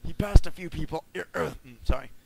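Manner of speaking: rough, raspy reading voice. Acted. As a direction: rasp it out like a ghoul. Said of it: "raspy voice".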